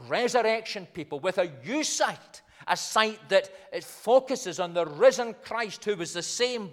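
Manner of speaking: slightly lifted, measured pulpit delivery; emphatic preaching. Acted. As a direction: preach it firmly, leaning on key words.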